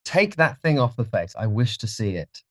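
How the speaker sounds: high start, softening away; uneasy order. A narrator's reading. Dorian to farm servant, uneasy and subdued. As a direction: order it with understated dread.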